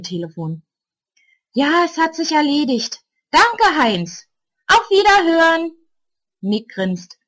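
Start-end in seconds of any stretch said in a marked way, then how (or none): 1.5-5.7 put-on higher, louder elderly lady on the phone; composed woman reporting to the police; calm older neighbour. A narrator's reading. Ulla calls the policeman about the gang, firm and composed. Ulla's voice.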